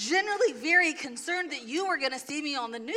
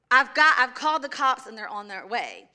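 retold holler; 6 dB louder than usual. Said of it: "hollers to the back".

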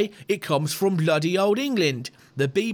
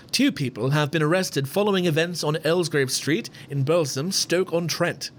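British news reader. Pretend. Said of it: "I'll do my best British news reader".

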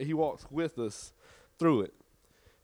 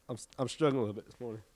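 quiet and low; 7 dB quieter, much faster than usual. Real, not acted. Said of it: "y'all can barely hear me".

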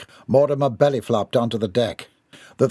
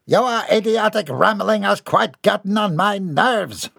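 put-on pompous boy; 8 semitones higher than usual.

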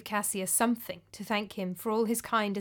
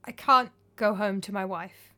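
voice breaking. Acted. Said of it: "his voice breaking".

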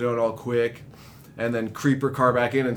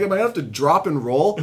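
laughing quote; 3 semitones higher, faster than usual. Retold or imitated. Retold panic, laughing while telling.

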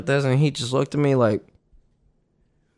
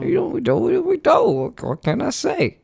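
smug boast; 10 semitones higher, 4 dB quieter than usual. Retold or imitated. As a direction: play it smug and proud. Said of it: "And I was like".

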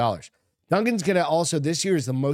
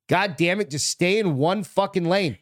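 mock road rage yell; 6 semitones higher than usual. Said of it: "You're like".

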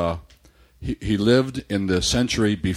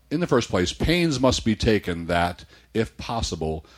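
put-on slow, measured reading of an old text; reading aloud; slower than usual. Reading Cicero on friendship to a co-host, slow and measured. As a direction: read it out deliberately, phrase by phrase.

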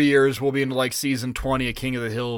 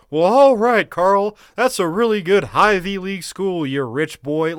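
loud, high teasing drawl; mocking redneck voice; 4 semitones higher, 4 dB louder than usual. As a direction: rib him like a small-town buddy. Acting out a mocking friend quote.

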